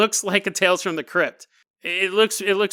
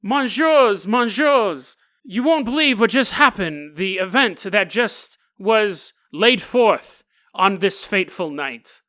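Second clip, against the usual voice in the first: frantic Parisian woman; 3 dB louder, slower than usual. Retold or imitated. Young woman bursting into the embassy, frantic and pleading. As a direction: burst in begging to be heard. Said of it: "and she's like".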